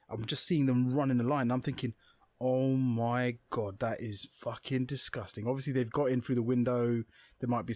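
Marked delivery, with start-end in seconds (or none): 2.4-5.5 very slow, drawn-out horror; slow-motion mock dismay; retold disgust. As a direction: dwell on each word in understated revulsion. Horrified thought at ant trail.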